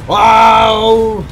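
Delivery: loud scared yell; startled shout. Real, not acted. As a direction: shout in fright. Jump scare while fleeing.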